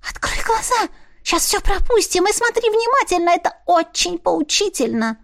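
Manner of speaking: high, insistent familiar voice; pushy high familiar; demanding. Acted. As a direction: urge her to look, eager. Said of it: "потребовала швабра".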